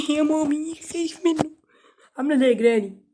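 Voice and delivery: high, loud frightened cry of mommy; scared squeal. Real, not acted. Gamer startled by a noise, high scared squeal. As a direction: yelp in fright at the sound.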